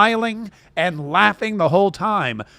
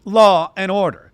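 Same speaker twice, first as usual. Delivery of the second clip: mocking her debate line; 3 semitones higher than usual. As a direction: mimic a smug rehearsed debate line. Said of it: "she was like".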